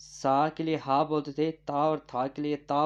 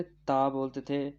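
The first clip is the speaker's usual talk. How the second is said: slow dictation; much slower than usual. Shown as a demonstration. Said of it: "ता था के लिए क्या बोलते थे".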